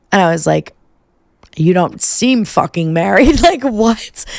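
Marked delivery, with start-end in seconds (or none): 1.6-4.3 retold disbelief, higher as it goes; laughing, incredulous pushback. Bar-goer confronting men who say they're married, incredulous.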